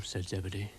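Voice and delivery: ordinary delivery, nothing marked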